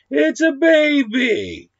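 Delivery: high, slow, far-off voice in a hammed-up proud announcement; mock proud dad. Husband bringing home a baby as a gift, hammed-up high voice. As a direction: stretch it out high like a cartoon dad. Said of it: "he's like".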